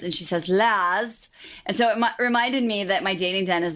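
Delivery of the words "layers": imitating a British "las" for layers, no r; Mary Berry's layers. Host playfully copying Mary Berry's British "las" in a mild mock accent. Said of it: "I love the way Mary Berry says layers".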